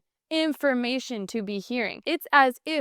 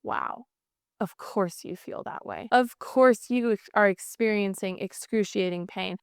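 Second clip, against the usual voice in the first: calm validating; 2 semitones lower than usual. Retold or imitated. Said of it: "And then Brandon tried".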